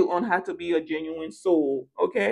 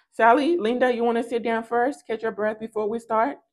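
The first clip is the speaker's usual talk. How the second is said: mock polite; 3 semitones higher than usual. Earth angels mockingly offering rivals a rest. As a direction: offer a seat with fake courtesy.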